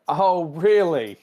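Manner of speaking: "Oh, really?" stretched out high and loud; slow mock challenge. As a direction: draw it out slowly, daring her. Spock slowly challenges T'Pring.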